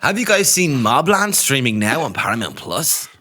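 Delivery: lightly mocked ad read; a hint of sales-pitch lilt; paid promotion advert. Host finishing the mock streaming plug, paid promotion advert voice. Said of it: "a paid promotion advert".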